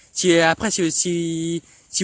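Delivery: stumbling over the first word; real stammer, restarting the same word; bégaiement. Real, not acted. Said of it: "désolé si je bégayais encore un peu". (bégaiement hésitant)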